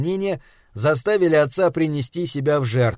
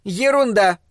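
high booming dismissal; wife rumbles a dismissal; rumbling; 6 semitones higher than usual. Acted. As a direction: rumble it scornfully. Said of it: "пророкотала она".

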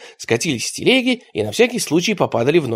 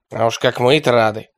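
grumbled; 2 semitones lower than usual. A narrator's reading. The Arab grumbling sarcastically at the traitors. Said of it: "проворчал араб".

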